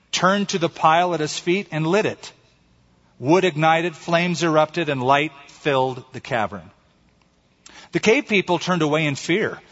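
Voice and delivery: measured storytelling with weighted pauses; story narration. A narrator's reading. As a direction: read it like a solemn fable. Reads a short story aloud.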